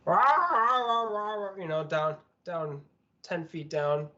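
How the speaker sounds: talking through a mouthful of food; mouth full. Real, not acted. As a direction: say it while chewing food. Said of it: "I had stuff in my mouth".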